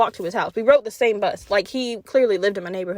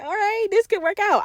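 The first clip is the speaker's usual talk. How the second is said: mock swooning inner voice; 9 semitones higher than usual. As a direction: coo it like a smitten teen girl. Smitten inner voice continues.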